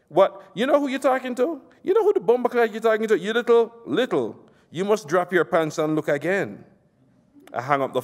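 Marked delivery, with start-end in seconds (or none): 0.1-6.7 you dare talk back to me; outraged shout. Acted. Nasser outraged.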